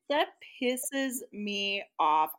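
slow, deliberate annoyance; frankly annoyed. Real, not acted. Listener reacting to the approval rule, frankly annoyed. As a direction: stretch it out, stating it flat out. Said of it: "I will just flat out say that".

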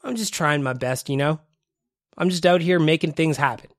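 stuffy and phlegmy, sick with covid; nasal voice. Real, not acted. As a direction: talk through a blocked nose. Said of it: "if I sound a little nasally, a little phlegmy".

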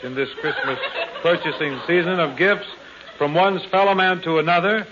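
pompous mock oration. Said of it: "stick to the script".

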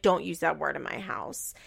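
hushed, unvoiced warning; whispered scold. Boyfriend scolds grandmother about cursing, whispered.

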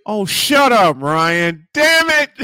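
high, loud mock outrage; loud laughing protest. Real, not acted. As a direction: yell it, half laughing.

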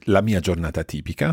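carefully paced Italian for learners; measured teacher's dictation; slow repeat. Shown as a demonstration. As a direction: read it out slowly and clearly, phrase by phrase. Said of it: "I'll repeat this more slowly".

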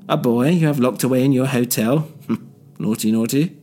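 villain mocking his son; sly teasing. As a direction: tease "Naughty, naughty" with a wink. Tooley teasing.

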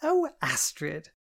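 slow, hammed-up oh; fake surprise. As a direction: pretend to be surprised. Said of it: "rang with fake surprise".

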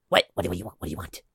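a gruff voice through the door slot; grumpy man. Acted. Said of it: "it goes".

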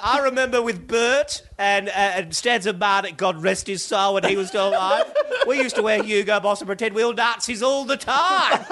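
lightly voiced camp old host; a hint of an old entertainer, laughing; old showman voice. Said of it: "a different voice comes out of a head".

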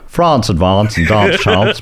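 attempted Kiwi accent, long "ah" in France and dance; amused stab at a Kiwi accent; imitated Kiwi accent. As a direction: try the Kiwi accent slowly, breaking into a laugh. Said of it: "now do it in my accent".

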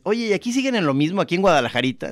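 snobby returnee. Retold or imitated. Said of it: "empiezas a agarrar esta onda de decirles".

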